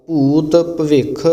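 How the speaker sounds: slow, with ਭਵਿੱਖ pressed firmly together; ਭਵਿੱਖ said tightly. Shown as a demonstration. Teacher shows the student ਭਵਿੱਖ said tight and firm. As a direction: say ਭਵਿੱਖ tight and clipped, slowly. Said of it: "ਇਸ ਨੂੰ ਕੱਸ ਕੇ ਬੋਲਣਾ".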